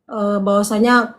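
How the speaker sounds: usual speaking voice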